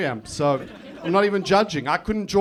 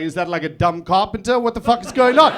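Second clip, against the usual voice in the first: mock incredulity, rising to a louder finish; retold bafflement; 5 dB louder than usual. Comedian recalling his Google search, mock incredulous. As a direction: build into baffled disbelief. Retells baffled reaction to definition.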